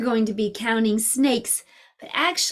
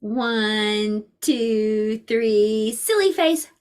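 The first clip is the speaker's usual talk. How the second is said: playful countdown; much slower than usual. Shown as a demonstration. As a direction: build to a bright call on silly face. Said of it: "Let's do it again".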